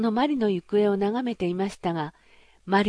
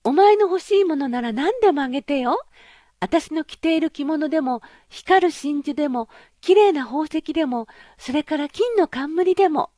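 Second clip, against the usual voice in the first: high, loud princess voice, eagerly promising; a spoiled girl offering everything, pitched up; eager pampered princess; 7 semitones higher, 6 dB louder than usual. Acted. Princess voiced in fairy tale. (高く大きな声で気前よく約束するお姫様)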